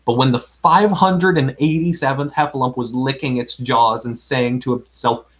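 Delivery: expressive read-aloud storytelling; story narration. A narrator's reading. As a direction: tell it like a children's story. Reads a children's story aloud.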